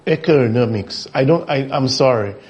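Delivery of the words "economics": "Economics" repeated as eh-kuh-NOM-ics, pitch dropped; mocked mispronunciation. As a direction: echo the odd pronunciation of "Economics" lower, in disbelief. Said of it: "some words and some pronunciations".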